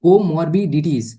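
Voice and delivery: comorbidities stretched very slowly for the learners; slow repeat. Shown as a demonstration. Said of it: "देखो patients with comorbidities".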